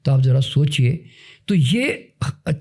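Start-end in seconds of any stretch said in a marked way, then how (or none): 0.1-1.0 hushed, breathy whisper of तो आप ज़रा सोचिए; whispered aside. Real, not acted. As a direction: lean in and whisper it. Teacher prompting listener to reflect. (फुसफुसाकर)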